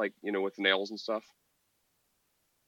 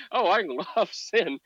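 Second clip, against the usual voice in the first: higher, slow mocking voice; mock sinner; 9 semitones higher, 5 dB louder than usual. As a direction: drag it out as a parody.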